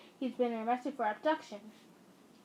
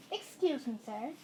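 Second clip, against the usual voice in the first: perfectly calm. Acted. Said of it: "in a perfectly calm voice".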